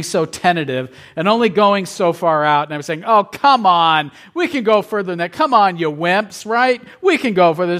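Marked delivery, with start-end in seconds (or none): 3.0-7.8 higher-pitched teasing dare; retold playful jeering at timid friends; mock taunting. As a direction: goad hesitant friends, mocking them for wimps. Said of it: "I was making fun of them".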